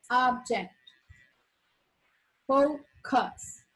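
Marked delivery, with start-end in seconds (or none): 2.5-3.6 focus with a clear long O; teacher modeling focus clearly and slowly; careful pronunciation. Shown as a demonstration. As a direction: say focus carefully, so it doesn't sound profane. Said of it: "Gotta be careful with this word".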